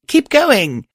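hoarse shout to push on. Acted. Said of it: "I shouted hoarsely".

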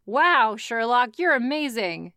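drip with fake awe; sarcastic. Sarcastic praise.

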